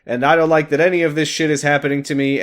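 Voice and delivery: indignant queen. Acted. Queen telling them both she distrusts them, mock indignant. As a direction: act out an affronted queen.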